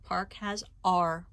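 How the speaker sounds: Park has R said slowly, R stressed; R in Park pointed out slowly; slow explaining. Shown as a demonstration. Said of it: "both have the er sound".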